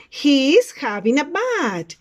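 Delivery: slow, loud teacher's model; model sentence for repeating. Shown as a demonstration. Teacher reads out a picture's sentence, slow model delivery. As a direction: say it slowly and firmly for learners. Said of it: "Repeat after me".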